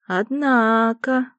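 very slow, high drawn-out; drawled. A narrator's reading. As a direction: stretch the word out wryly. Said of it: "протянула я".

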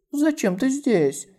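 high, slow, cross question; angry. Acted. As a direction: demand it crossly. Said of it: "сердито спросила Ся Синьянь".

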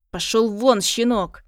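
loud contemptuous yell; father yelling at the boy, furious. Acted. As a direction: bark him out the door. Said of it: "орёт отец".

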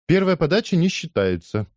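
high shouted protest; shouting. Acted. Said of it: "кричала она".

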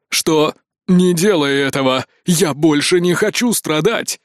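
a mild desperate plea not to be taken; lightly voiced frightened begging; pleading. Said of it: "взмолился Искин".

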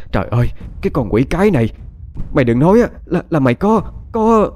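losing control as the dreaded truth dawns; panicked outburst. Acted. Wife losing her composure as she guesses the pregnancy, panicked and rising. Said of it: "Liễu hốt hoảng và gần như không giữ được bình tĩnh nữa".

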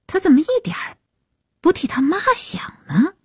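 high-pitched indignant question; aggrieved, voice pitched well up; resentful. A narrator's reading. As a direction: protest with lingering resentment. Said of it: "海云犹自恨恨".

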